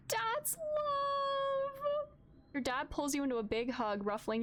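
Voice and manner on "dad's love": overjoyed shriek; excited gasp. Real, not acted. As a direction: gasp then squeal, much higher. Dad cured in game.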